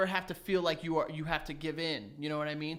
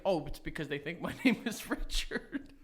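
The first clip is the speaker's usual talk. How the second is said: mock naive thought, laughing.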